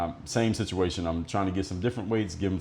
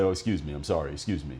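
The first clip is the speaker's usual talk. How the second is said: sarcastic apology; 4 semitones lower than usual. Retold or imitated. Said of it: "He said it kind of in a sarcastic way".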